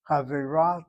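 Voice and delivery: Chavira with the accent on ra; stress on last syllable. Shown as a demonstration. Teacher models Chavira with final stress. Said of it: "the accent is on the last syllable".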